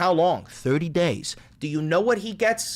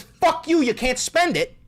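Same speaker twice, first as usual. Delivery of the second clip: high, louder defiant shout of "Fuck you"; mock Trump defiance; 11 semitones higher, 4 dB louder than usual. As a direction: fling it back like a defiant boss. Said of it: "Well, Trump says".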